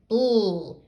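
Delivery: "bull" said as a blend, b running straight into l, like "bloo"; "bull" pronounced as a drawn-out "bl" blend; no schwa. Shown as a demonstration. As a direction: blend the b and l of "bull" with no vowel between. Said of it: "Here, there's no schwa in there".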